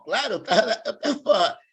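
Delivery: chuckling through the words; laughing. Real, not acted. Recalling saying yes to training, laughing. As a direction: laugh while you say it. Recalling eagerly accepting capoeira invitation.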